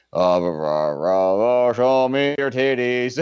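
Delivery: a hammed-up Russian singing gibberish; mock Russian accent. Imitating Nikolai Volkov's anthem to his friend, mock Russian accent. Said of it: "when he would do the accents".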